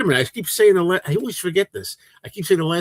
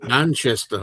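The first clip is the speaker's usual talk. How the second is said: British accent. Shown as a demonstration. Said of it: "I don't do a good British accent".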